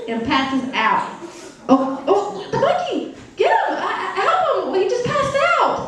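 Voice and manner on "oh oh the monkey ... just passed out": high, frantic stammering alarm; mock panic. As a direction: plead for help in comic panic. Acted alarm as monkey passes out.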